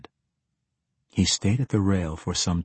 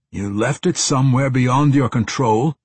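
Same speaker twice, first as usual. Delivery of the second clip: loud, raised-pitch disbelief; incredulous scolding; 4 semitones higher, 7 dB louder than usual. A narrator's reading. Uncle scolding the woman over the lost book, incredulous. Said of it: "Wingham scolded, his voice incredulous".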